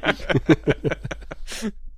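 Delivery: breathy villain laugh; evil chuckle. Pretend. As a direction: cackle softly like a mad scientist. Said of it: "es fehlt nur noch so ein diabolisches Lachen".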